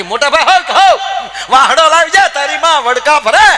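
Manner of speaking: high, loud laughing shout for his brother; mock yell for help. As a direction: call out in hammed-up panic, laughing. Man yells for help, bitten. (હસતાં હસતાં મોટેથી બૂમ)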